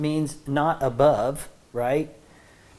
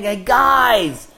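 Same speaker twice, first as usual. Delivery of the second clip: urgent, raised pleading appeal; beseeching; 3 semitones higher, 4 dB louder than usual. Retold or imitated. Preacher voices Paul pleading with the church, beseeching. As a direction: press it on them, loud and imploring. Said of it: "It's like begging them. He's saying".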